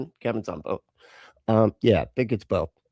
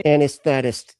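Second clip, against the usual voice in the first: mock English accent; 4 dB louder than usual. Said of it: "Yeah, with your accent".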